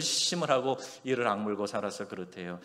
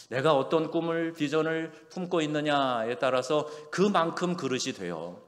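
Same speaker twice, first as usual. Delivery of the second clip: normal talking voice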